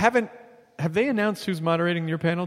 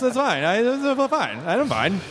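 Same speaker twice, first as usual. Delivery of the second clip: high, unconvincing reassurance; put-on wounded nonchalance; mock hurt; 5 semitones higher, slower than usual. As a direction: insist too much that you're okay. Feigns not minding the rival.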